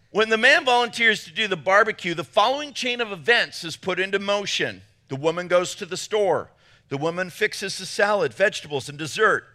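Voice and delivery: lively, emphatic read-aloud voice. Acted. Pastor reading men a barbecue joke, lively reading aloud. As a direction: read it out like a comic list.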